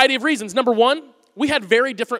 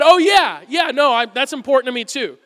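eager agreement; 2 semitones higher, 5 dB louder than usual. Retold or imitated. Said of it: "so I all of a sudden said".

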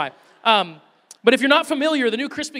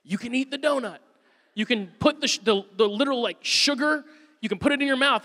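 coaching; 4 semitones higher than usual. Retold or imitated. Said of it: "I'm literally coaching him".

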